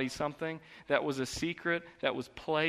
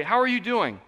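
higher, louder breezy greeting; casual greeting; 8 semitones higher, 6 dB louder than usual. Retold or imitated. Pastor mimicking a hollow church greeting, breezy. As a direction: toss off an empty hello. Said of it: "You do not mean that".

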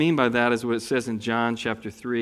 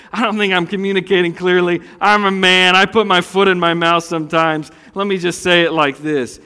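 loud flustered fix; 4 semitones higher, 7 dB louder than usual. Pretend. Husband louder, trying to fix it.

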